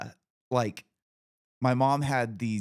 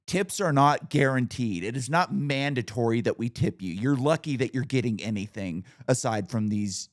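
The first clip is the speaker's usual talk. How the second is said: ripping into her; 3 dB louder than usual. Retold or imitated. Speaker ripping into the masseuse over the tip, loud scolding. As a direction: lecture her hard about tipping. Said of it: "I'm like".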